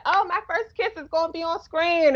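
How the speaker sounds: mock young girls' excitement; super excited. Teacher quotes girls thrilled about a first screen kiss, imitated excitement. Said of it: "they were, like, super excited".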